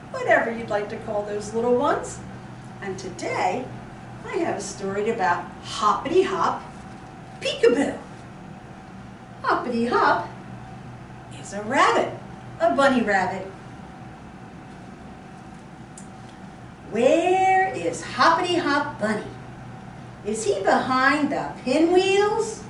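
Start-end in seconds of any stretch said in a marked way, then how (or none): 4.2-6.6 bright, sing-song storytime voice for little ones; reading to toddlers. Acted. Reading picture book to toddlers. 7.4-8.0 high, bright peekaboo call; spring the surprise on the little ones; playful peekaboo. Pretend. Peekaboo game with toddlers. 9.4-22.6 bright, sing-song storytime voice for little ones; reading to toddlers. Acted. Reading picture book to toddlers.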